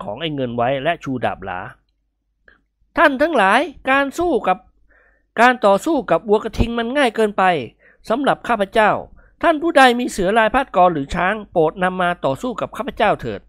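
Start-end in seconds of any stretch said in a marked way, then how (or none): 2.3-13.4 higher-pitched, boastful orator; Nikon's grand challenge. Acted. Victorious bullfighter addressing the crowd, grandly boastful.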